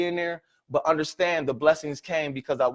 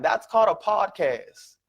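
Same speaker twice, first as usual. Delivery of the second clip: slow repeat; 4 semitones higher, slower than usual. Shown as a demonstration. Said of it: "Write that down".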